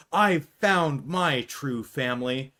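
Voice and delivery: slow, solemn hammed-up declaration; mock heartfelt line. Vanessa returning to Mike and Abby, mock solemn. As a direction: say it like a movie moment. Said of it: "she says".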